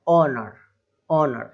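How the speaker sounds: "ऑनर" starting on the vowel, no h; silent h. Shown as a demonstration. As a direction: begin "ऑनर" straight on the o. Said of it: "केवल यहाँ से पढ़ेंगे इसको".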